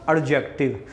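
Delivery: "एडजेक्टिव" with the D voiced as its own sound; D wrongly sounded. Shown as a demonstration. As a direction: say "एडजेक्टिव" as ad-jektiv, D pronounced. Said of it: "एडजेक्टिव नहीं है बच्चे, ये डी silent होता है".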